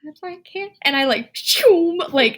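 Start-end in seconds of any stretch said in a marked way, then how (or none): 0.1-0.7 small, high, soft voice; meek apology. Retold or imitated. Startled passerby turning down a yelling man, meekly. 1.3-2.0 higher-pitched whoosh noise; zooming-away noise. Retold or imitated. Fleeing from a man who yelled, with a whoosh.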